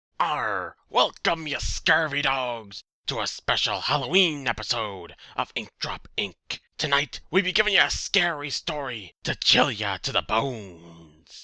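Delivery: booming, very loud, stock clichéd pirate voice. Opening a special halloween podcast episode for listeners, clichéd pirate voice. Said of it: "Why are you talking like that?".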